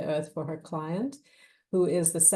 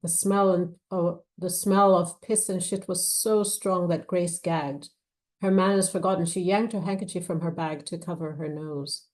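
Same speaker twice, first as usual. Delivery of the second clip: measured, expressive novel reading; story narration. A narrator's reading. Author reading her thriller to an audience, measured narration. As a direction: read the scene aloud with weight. Reads novel excerpt aloud.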